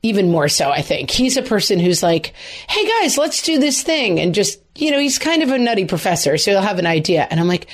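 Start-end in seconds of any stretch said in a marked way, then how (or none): 2.7-4.2 imitated enthusiastic husband, much higher pitch; eager rallying call. Wife imitating husband calling kids to an activity, eager and high-pitched. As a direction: pipe up like someone rallying everyone.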